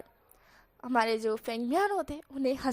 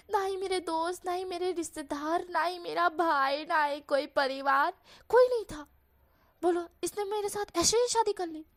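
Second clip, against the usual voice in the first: higher, aggrieved whine; Wang Ji complaining; 4 semitones higher than usual. Acted. Wang Ji complains to Wushian's mother, higher and aggrieved. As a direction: pour out the grievance like a wronged bride.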